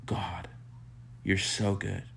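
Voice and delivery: gentle, reverent adoration with small pauses; awed praise. Acted. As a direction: murmur it as an intimate prayer of amazement. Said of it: "you'll just be like, "Wow".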